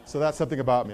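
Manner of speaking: laughing it off; amused chuckle. Real, not acted. Laugh after the joke.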